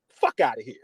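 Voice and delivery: whispered fuck outta here; dismissive whisper. Real, not acted. Podcaster brushing off Denver fans, whispered. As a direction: hiss it under your breath, dismissive.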